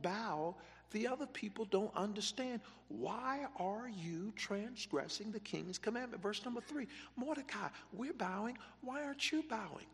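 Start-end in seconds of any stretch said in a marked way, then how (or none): 2.9-9.9 high, pressing voice of the peers; mocking peers. Preacher voicing coworkers who question Mordecai, high and pressing. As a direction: needle him like the crowd doing it.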